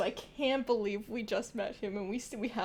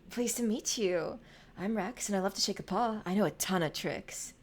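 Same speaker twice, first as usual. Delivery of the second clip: a hint of a smooth-talking character; 3 semitones lower than usual. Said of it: "what's a good voice for you".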